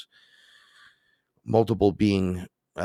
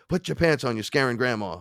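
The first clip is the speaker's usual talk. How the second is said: higher, nagging grandpa; 5 semitones higher than usual. Retold or imitated. Grandpa tells him to dress, mild mock nag. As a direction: scold like a flustered old man. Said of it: "He goes".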